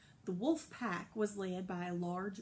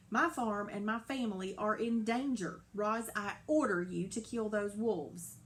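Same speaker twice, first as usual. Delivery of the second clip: angry order; 3 dB louder than usual. Acted. Farmer orders robot angrily.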